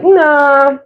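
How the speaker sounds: shy, modest deflecting of a compliment; bashful brush-off. Retold or imitated. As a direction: wave off the praise, a little embarrassed. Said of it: "We're like".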